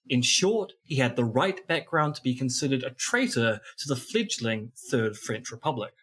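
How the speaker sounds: formal read-aloud of the preamble; reading an old script. Acted. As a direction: read the old intro like a narration.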